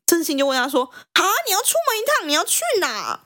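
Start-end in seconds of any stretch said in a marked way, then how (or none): 1.1-3.2 high, quick startled question; surprised questioning. Acted. Husband asking his wife where she's going, surprised. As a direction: blurt it out fast and high, taken aback.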